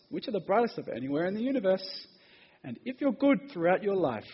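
lilting storybook reading; reading to children. Acted. Preacher quotes a kid's book on heaven, storybook reading. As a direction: read it as if to small children.

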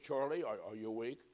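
soft, low pastor at a bedside; quietly checking if he's awake. A narrator's reading. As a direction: gently rouse him, keeping your voice down. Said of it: "but very quietly".

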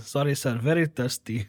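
put-on, vaguely Russian accent; hammed-up random foreign accent. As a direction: apologise in a muddled foreign accent. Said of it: "That was a random accent".

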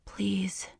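whispered plea; a pleading breathy whisper; soft, desperate. A narrator's reading. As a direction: beg in a whisper. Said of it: "I said softly, desperately".

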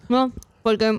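talking with mouth full; words around a mouthful of food. Real, not acted. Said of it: "no puedo hablar con la boca llena".

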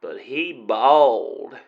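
put-on cowboy accent. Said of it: "interesting accent you've got there".

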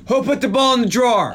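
acted-out demand. Podcaster replaying the scene's best line, mock demanding.

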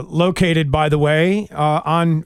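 usual speaking voice

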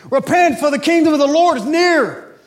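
high, loud American street-preacher cry; hammed-up American doomsday preacher shout; American accent. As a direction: proclaim it loudly in a put-on American accent. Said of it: "I did an American accent".

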